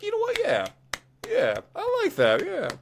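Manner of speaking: high-pitched, hammed-up Scottish crowd voice; Scottish accent. Retelling the Scottish crowd's reaction to Stevie Ray, mock Scottish accent. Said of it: "It was in a Scottish accent".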